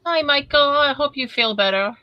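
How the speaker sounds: high, sing-out well-wish; caring greeting. Real, not acted. Host greets an unwell viewer, caring greeting.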